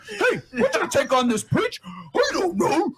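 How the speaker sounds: slow, dopey mocking voice, laughing through it; mocking a slow, dim-witted host; Clifford voice. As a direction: play a slow, clueless mic-holder. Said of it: "Nigga sound like Clifford".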